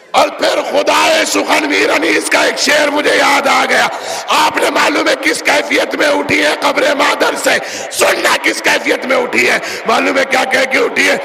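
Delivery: fiery Urdu sermon delivery; preaching at full force. Acted. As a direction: rouse the gathering with rising fervour.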